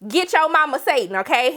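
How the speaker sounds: high, fast, mocking comfort; sky-high sassy best friend. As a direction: brush off her sadness with sass. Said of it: "And she's like".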